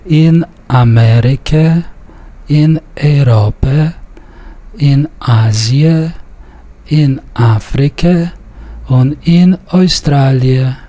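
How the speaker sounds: measured list reading, Amerika stressed on "me", Europa said "ey-RO-pe"; careful Yiddish reading, Australia said "oy-STRA-lye"; Yiddish pronunciation model. Shown as a demonstration. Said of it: "observe the stress where it's indicated".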